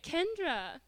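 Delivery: lightly imitated child calling, pitch lifted; nephew calling out. Nephew calling her in the story.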